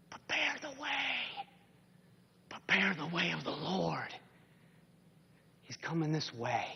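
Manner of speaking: heard in the heart. Acted. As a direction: let the call sink in like a memory. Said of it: "with his ears and with his heart".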